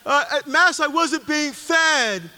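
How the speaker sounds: mock whine, stretched slow; whiny complaint. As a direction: mimic a lapsed Catholic's gripe. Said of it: "falling away Catholics saying".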